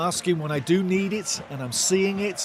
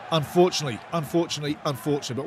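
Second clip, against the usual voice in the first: fading disappointment; 4 dB quieter, much faster than usual. Real, not acted. Repeats, fading after lost ball.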